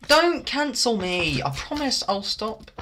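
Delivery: high, drawn-out begging whine; mock pleading. Streamer begging viewers not to cancel him, mock pleading.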